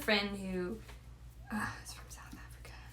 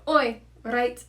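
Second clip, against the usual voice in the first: put-on South African accent; 5 dB louder than usual. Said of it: "Let me just find South African accent".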